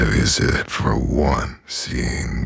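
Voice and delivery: slow unvoiced whisper. Real, not acted. Signing off to viewers in a slow whisper. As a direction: hush it out slowly.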